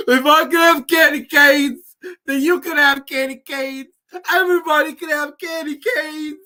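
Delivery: high, loud shouted slurred impression; Rocky speech parody. Spoofing the Rocky Four speech in Russia, shouted impression. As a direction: bellow it high like a rousing victory speech. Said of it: "going on a Rocky Four hiatus".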